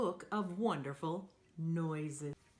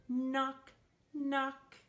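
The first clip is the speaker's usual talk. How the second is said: knocking; 7 semitones higher than usual. Acted. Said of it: "like a hand on a door".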